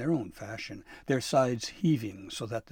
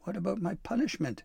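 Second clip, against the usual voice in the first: high-pitched elf's worried question; crying out; 9 semitones higher than usual. A narrator's reading. Pim asking Santa about his punishment, high cry. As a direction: ask it as a high, urgent cry. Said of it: "Pim cried".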